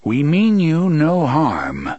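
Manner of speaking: calling out. A narrator's reading. Gunslinger reassures two frightened strangers, calling out. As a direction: call it out slowly to someone across a square. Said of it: "the gunslinger called".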